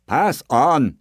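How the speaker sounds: nervous brush-off; hasty villager. Acted. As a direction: wave him off quickly. Villagers send him away.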